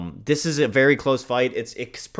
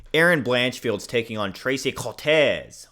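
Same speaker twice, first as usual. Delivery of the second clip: slow, lightly put-on Asian accent; a slight mock Asian accent on the names. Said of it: "Don't know why I did a Asian accent for that".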